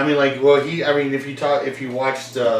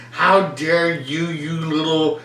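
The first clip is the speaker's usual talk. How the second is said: imitating adult scolding; 3 semitones higher than usual. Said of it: "got in my face ... and was like".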